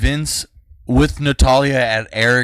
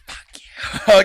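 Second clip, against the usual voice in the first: raised, higher mock yell; retold yell; 7 semitones higher, 6 dB louder than usual. Girl yelling at the man teasing her, mock yell. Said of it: "she was yelling at me".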